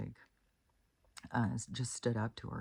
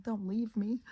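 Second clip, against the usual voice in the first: high, whiny mock plea; 11 semitones higher than usual. Pleading with her own falling hair, high whiny mock voice. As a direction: beg like a clingy lover, hammed up.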